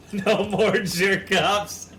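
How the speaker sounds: drawn out, loud campaign slogan; slow, loud mock slogan; slow mock proclamation. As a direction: boom it like a rally chant.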